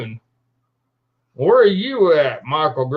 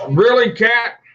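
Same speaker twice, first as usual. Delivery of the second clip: a high, louder "really?" at the cat; exasperated at cat; 7 semitones higher, 4 dB louder than usual. Real, not acted. Streamer scolding his cat for getting in the way, exasperated. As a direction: scold the cat, half amused.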